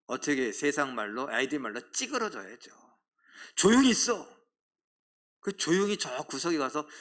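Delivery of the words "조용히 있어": mock stern hush. World hushing believers.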